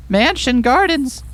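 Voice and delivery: delighted, a bit slow; excited. Real, not acted. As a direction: say it with wonder. Own voice, excited reply.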